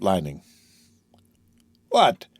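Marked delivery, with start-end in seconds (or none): 1.9-2.3 put-on broad Marseille accent. A narrator's reading. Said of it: "with a broad Marseille accent".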